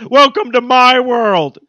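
cartoon character voice. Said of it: "And then Joe goes".

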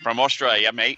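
light mock Australian accent. Cohost chimes in on where the letter is from, light mock Australian accent. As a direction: put on a hint of an Australian accent. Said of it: "I won't do the accent".

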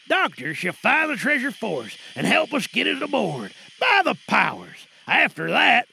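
a lightly voiced old sea dog plotting; muttering pirate, half menace; lightly played pirate in a radio drama; pirate sailor. Actors perform pirate scene.

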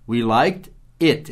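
"it" stressed and drawn out slowly. Shown as a demonstration. Teacher shows students the needed object, slow. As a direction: lean on "it", say "We liked it" slowly. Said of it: "Esse it quer dizer a viagem".

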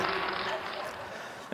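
slow, whispered self-mocking aside. Real, not acted. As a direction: whisper it to yourself, slowly. Aside after failed joke.

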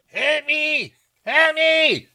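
put-on very high, distant cry for help in a muddled foreign accent; hammed-up Spanish-French accented wail; Jon Voight's all-over-the-place accent. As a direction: call from far off in a mongrel accent. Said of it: "It's this voice that has an accent".

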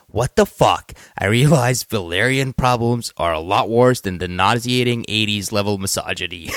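slow, deliberate tweet reading; lightly put-on actor voice, measured phrases; Will Arnett. Co-host reads an angry tweet aloud, lightly impersonated actor voice. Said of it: "Will Arnett voice".

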